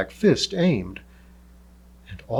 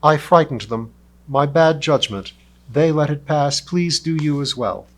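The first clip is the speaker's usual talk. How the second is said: louder, carrying across the hold; calmly raised call; 3 semitones higher, 5 dB louder than usual. Acted. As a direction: call up to the crew. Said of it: "he called to his two crewmates".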